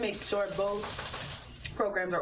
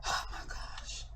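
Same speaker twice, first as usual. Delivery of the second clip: soft unvoiced dismay; whispered oh my gosh; 7 dB quieter, slower than usual. Real, not acted. Remembering the chicken sausage, whispered dismay. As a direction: breathe it out in disbelief.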